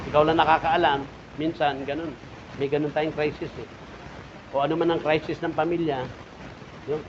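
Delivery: ordinary delivery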